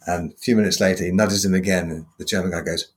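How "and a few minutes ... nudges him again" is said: normal talking voice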